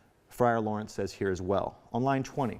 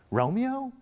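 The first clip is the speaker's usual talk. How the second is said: scoffing; 13 semitones higher, 3 dB louder than usual. Acted. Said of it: "The nurse says to her".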